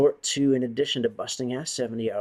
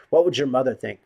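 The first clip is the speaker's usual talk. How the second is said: mocking taunt; 2 semitones higher, 9 dB louder than usual. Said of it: "or, um".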